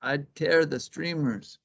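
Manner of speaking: high, quick bunny voice; jittery rabbit. Acted. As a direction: bounce through it like a hyper hare. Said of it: "said Conejo".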